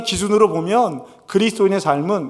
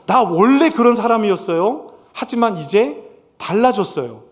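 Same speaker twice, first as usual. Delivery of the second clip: sincere confession; 4 semitones higher than usual. Acted. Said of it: "이렇게 말할 수 있어야".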